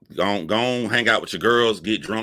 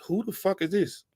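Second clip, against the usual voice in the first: higher, incredulous who-is-this; baffled outrage; 13 semitones higher than usual. Retold or imitated. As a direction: pitch it up in disbelief. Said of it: "I'm like".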